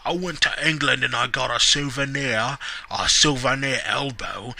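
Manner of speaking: lightly put-on promo voice, slowing at the end; a hint of a gloating British heel; mock wrestler promo. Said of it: "It's like".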